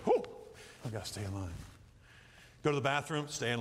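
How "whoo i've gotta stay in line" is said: kids mock quiet reply. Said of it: "They go".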